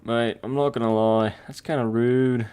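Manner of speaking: badly faked British accent; terrible British accent. Shown as a demonstration. Streamer repeats the complaint, in a terrible British accent. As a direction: do a hammy, unconvincing British accent. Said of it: "That was a terrible British accent".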